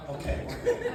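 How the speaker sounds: light caving-in impression; imitating Rudy giving in. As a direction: give in with a high breathy okay. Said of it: "Rudy's like".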